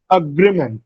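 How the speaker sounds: "agreement" as uh-GREE-ment; stress on second syllable. Shown as a demonstration. Teacher repeats the correct "agreement", stressing GREE. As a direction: lean on GREE in "agreement", first vowel reduced. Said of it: "The second syllable, gri, receives a stress".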